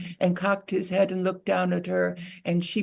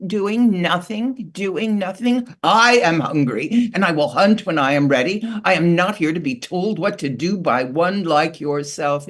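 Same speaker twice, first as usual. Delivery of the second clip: a hungry eagle refusing orders; angry eagle; 7 dB louder than usual. Acted. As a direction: bark down at her in proud anger. Eagle snarls back at beaver.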